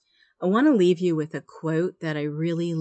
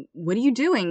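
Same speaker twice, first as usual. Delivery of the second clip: higher, exasperated mock outburst; goes ballistic; 6 semitones higher than usual. Trapped man to the stranger who jumped in, mock exasperated cry. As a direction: retell his panicked cry at the stranger, pitch jumping up. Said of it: "the man goes ballistic".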